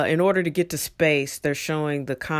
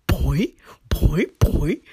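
imitated boing; much slower than usual. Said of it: "just to see that".

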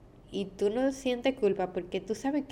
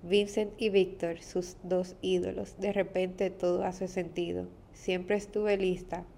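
poem reading. Acted. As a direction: read it gently, line by line. Reads her own poem aloud. (lectura de poema, suave y pausada)

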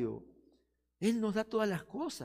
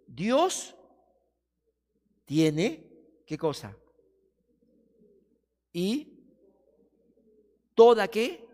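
slow, louder, word by word with long pauses; slow reverent reading; 2 semitones higher, 7 dB louder, slower than usual. Shown as a demonstration. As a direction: savour each word like rumination. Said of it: "Vamos a leerlo lentamente".

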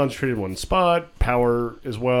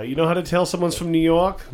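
put-on New York accent; 5 semitones higher than usual. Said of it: "My terrible New York accent".

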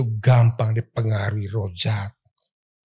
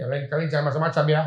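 threatening; 3 semitones higher, 5 dB quieter, much faster than usual. Shown as a demonstration. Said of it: "ngancem namanya".

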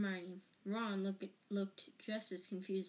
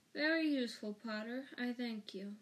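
sneering Snape voice; 2 semitones higher, 3 dB louder than usual. Acted. Snape taunts Lupin and Harry.

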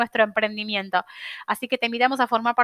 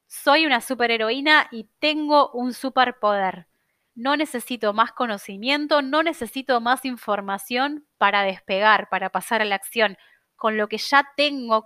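slow affirmation. Shown as a demonstration. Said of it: "vas a repetirte a vos misma".

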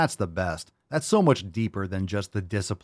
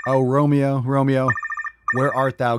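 loud, high Shakespearean cry; hammed-up balcony-scene plea; theatrical Romeo call; 5 semitones higher, 6 dB louder than usual. Host calling the caller, hammed-up Shakespearean cry.

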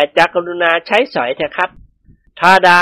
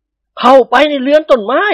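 a weighty, slow command, louder; heavy-voiced order; 8 semitones higher, 3 dB louder, slower than usual. A nobleman ordering the two men inside, heavy and slow. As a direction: lay each word down heavily. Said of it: "ท่านพูดเสียงหนักๆ".

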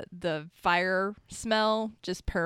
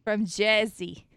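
put-on loud, drawn-out Jersey accent; 5 dB louder, slower than usual. Friend mimicking a Jersey native, slow put-on Jersey accent.

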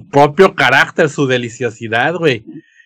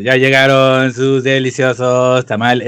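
tamale vendor recording; 2 semitones lower than usual. Retold or imitated. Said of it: "la gra".

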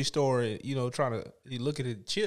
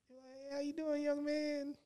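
put-on high, soft old-lady greeting; old grandma; 12 semitones higher, 9 dB quieter, much slower than usual. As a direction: imitate an elderly lady, pitched up and quiet. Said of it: "be, like, my grandma".

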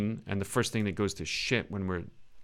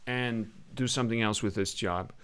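put-on British-sounding American accent; 3 semitones higher than usual. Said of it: "you're doing an American accent here".

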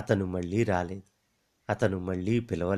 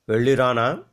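a thin, strained, louder farewell; thin, twisting voice; 2 semitones higher, 7 dB louder than usual. Acted. The dying man bidding Latha farewell in a thin writhing voice. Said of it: "అతని స్వరం సన్నగా మెలికలు తిరిగి".

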